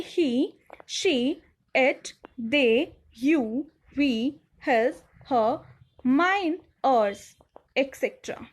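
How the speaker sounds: "he, she, it, they" said one by one, with pauses between; word-by-word pronunciation drill; pronunciation demo. Shown as a demonstration. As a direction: model each pronoun clearly for learners to repeat. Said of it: "word को हम कैसे pronounce करते हैं".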